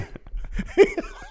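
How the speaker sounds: breathy high cackle; high laugh. Real, not acted. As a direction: burst out laughing. Laughing at own bit.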